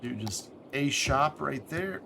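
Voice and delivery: speaking with the hiccups. Real, not acted. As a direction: hiccup breaking into words. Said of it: "Excuse me, I have the hiccups".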